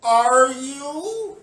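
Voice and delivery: high, loud demanding question; loud challenge. Real, not acted. Challenging protesters, high and loud.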